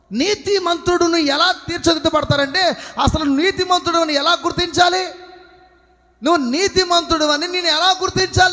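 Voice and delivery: full-force preaching. Real, not acted. Preacher assuring believers God never abandons them, full-force preaching. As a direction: preach it out to the congregation.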